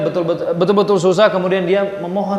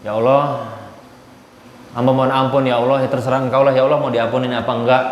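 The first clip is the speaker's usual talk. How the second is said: offhand, careless plea, a little lower and quick; half-hearted prayer; 3 semitones lower than usual. Retold or imitated. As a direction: pray as if you don't really care. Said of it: "Eh, jangan kayak gitu". (doa setengah hati, asal-asalan)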